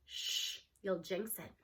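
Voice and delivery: soft playful whisper; coy whisper. A narrator's reading. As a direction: hush her like sharing a secret. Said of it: "I shoot her a coy look".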